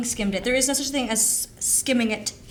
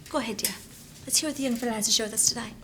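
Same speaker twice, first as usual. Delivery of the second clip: creepy sweet voice; 2 semitones lower, faster than usual. Acted. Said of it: "You are freaking me out".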